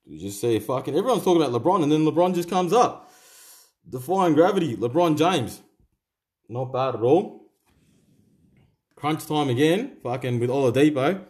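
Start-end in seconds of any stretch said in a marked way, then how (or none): 0.9-5.6 excited. Real, not acted. Hyping a pulled LeBron card.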